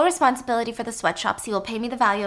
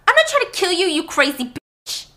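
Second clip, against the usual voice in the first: much higher and louder, furious yell; screaming back; 8 semitones higher, 5 dB louder than usual. Acted. Helen screaming back at Whiskey who wants to kill her. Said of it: "Helen screams".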